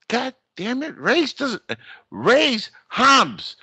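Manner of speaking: high exasperated yell; frustrated call. Retold or imitated. Annoyed stranger yelling the full name at his back, high and exasperated. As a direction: call out, fed up he won't turn.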